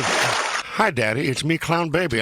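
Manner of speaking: a hint of an unborn baby clown greeting Daddy. Host mocking a rival DJ's on-air baby, light clown voice. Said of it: "I do my whole".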